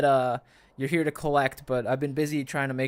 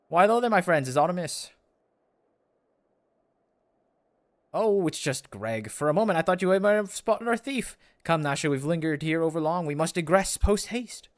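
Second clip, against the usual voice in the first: lightly theatrical gentleman, raised pitch; genial grandiose inspector; 3 semitones higher, 3 dB louder than usual. Acted. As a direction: greet friends with a hint of old-fashioned pomp. Voices inspector greeting friends.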